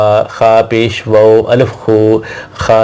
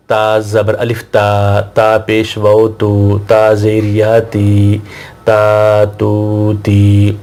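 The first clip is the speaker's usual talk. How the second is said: slow syllable drill; much slower than usual. Shown as a demonstration. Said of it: "تو ہم اس کو اس طرح بھی بول سکتے ہیں".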